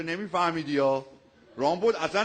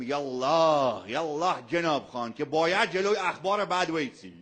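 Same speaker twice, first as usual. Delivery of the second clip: self-quoted rallying call. Retold or imitated. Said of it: "ما گفتم".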